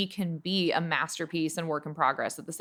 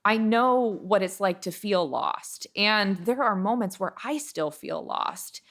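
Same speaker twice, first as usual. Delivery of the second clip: emotional; 2 semitones higher than usual. Real, not acted. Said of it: "I don't know why I'm getting emotional".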